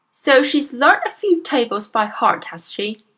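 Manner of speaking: loud, harsh sneering bark. Acted. Headmistress barks a sneer at the teacher, loud. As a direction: bark it with contempt. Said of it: "Miss Trunchbull barked".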